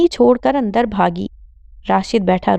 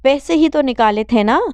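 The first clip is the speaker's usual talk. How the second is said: pitched-up furious scolding; angry mother; 6 semitones higher than usual. Acted. Mother scolding daughter for beating her brother, angry. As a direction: take the son's side, furious. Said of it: "Rashida نے غصے سے کہا".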